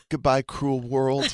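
slow, laughing mock-tragic goodbye; melodramatic farewell. Feverish speaker saying goodbye, slow hammed-up tragic farewell. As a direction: ham up a dying farewell. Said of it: "I was so dramatic".

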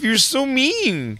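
put-on high, slow drunken whine; drunk yelling outside. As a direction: drag it out high. Drunk girlfriend voice again.

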